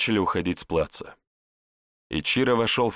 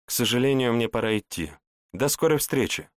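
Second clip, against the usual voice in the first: playful; 5 semitones higher than usual. Acted. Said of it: "Весело глядя ему в глаза".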